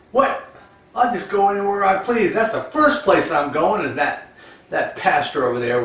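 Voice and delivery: brash, loud boast; cocky agent. Retold or imitated. Agent scoffing at the farmer's warning, loud and brash.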